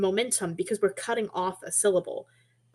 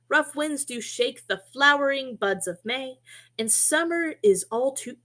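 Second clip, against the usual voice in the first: poem recitation; 3 semitones higher than usual. Shown as a demonstration. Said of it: "let's see how that affects the flow".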